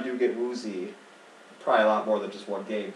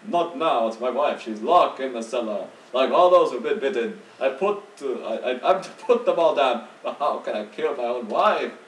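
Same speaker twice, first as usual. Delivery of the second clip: slightly raised, distraught blacksmith, acted; different character voice; 3 dB louder than usual. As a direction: play a troubled blacksmith turning someone away. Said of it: "I did use different voices".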